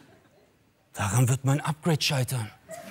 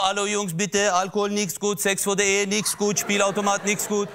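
broken-German imam; 4 semitones higher than usual. Retold or imitated. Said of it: "war immer so".

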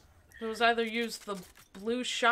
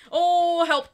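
fluttering cries for help; 9 semitones higher, 14 dB louder than usual. Pretend. Getting shot in game.

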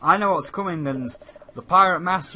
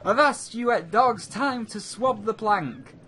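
pirate captain voice; 6 semitones higher than usual. Pretend. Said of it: "see if I've really got what it takes to be a pirate".

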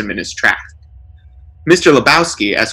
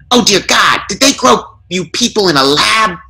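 higher, exasperated disbelief; exasperated burglar; 9 semitones higher than usual. A narrator's reading. Burglar despairs of the smiling lawyers, higher and exasperated. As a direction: throw up your hands in disgust.

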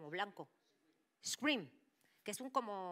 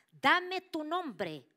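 very slow, louder and higher order; commanding, much louder; 9 semitones higher, 12 dB louder, much slower than usual. Retold or imitated. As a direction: demand it like an exorcist. Priest commands the demon.

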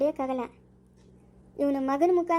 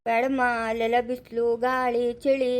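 low-pitched, tender warning to a little one; gentle coaxing; 4 semitones lower than usual. Acted. Parent warns child of sun and thorns, coaxingly. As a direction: talk a small child out of it, lower.

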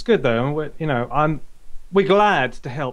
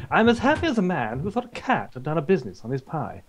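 tipsy boaster; 4 semitones higher, faster than usual. Acted. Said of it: "My voice goes higher".

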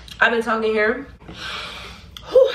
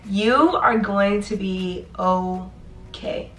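reassuring; slower than usual. Real, not acted. Vlogger slowly reassuring nursing students they will be okay. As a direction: say it slowly, like a promise.

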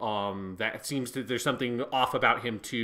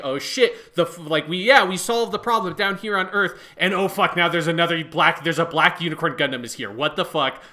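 excited outburst; 4 semitones higher, 6 dB louder than usual. Retold or imitated. Acting out the episode ending.

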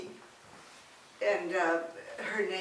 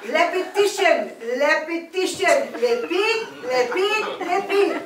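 loud, hammed-up Chinese doctor accent; 5 semitones higher, 5 dB louder than usual. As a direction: play a bossy Chinese skin doctor. Chinese specialist coaching exercise.

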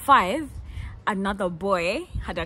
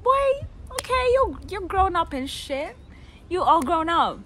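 mock amazement; 9 semitones higher, 5 dB louder than usual. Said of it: "and I was like".

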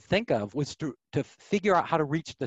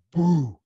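mock boo; 3 semitones higher, 6 dB louder than usual. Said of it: "her expression just went".

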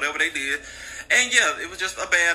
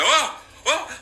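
mock panic; 12 semitones higher than usual. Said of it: "So he's freaking out".

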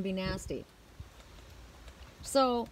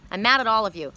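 retold anger; 4 dB louder than usual. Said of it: "And I said to everyone".

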